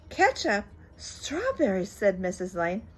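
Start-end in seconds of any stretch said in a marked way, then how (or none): 0.1-1.9 high, louder disbelieving echo; appalled mother. Acted. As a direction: spit each word back in disbelief. Mrs Lane appalled at the food.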